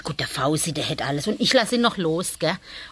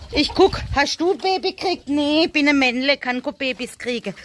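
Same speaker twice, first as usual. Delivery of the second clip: higher cutesy voice, answering for the buck; playful chat with the rabbit; 4 semitones higher than usual. Pretend. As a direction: ask and answer like a little rabbit. Gespräch mit Hasen, antwortet für ihn. (verspielte hohe Hasenstimme)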